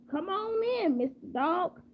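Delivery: high-pitched invitation, easing down; lightly voiced hostess letting a guest in; welcoming lady. Lady invites the dog into her house, welcoming.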